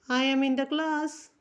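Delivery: "I am in the class" said very slowly; slow dictation. Shown as a demonstration. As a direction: dictate each word slowly. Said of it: "बोल सकते हैं इस तरह से".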